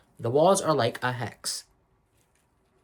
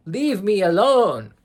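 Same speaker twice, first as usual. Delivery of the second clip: higher, louder, slower mock yell; 6 semitones higher, 6 dB louder, slower than usual. Agatha blackmailing Rio, hammed-up yell. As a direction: throw the demand out like a hammed-up outburst. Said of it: "where she's like".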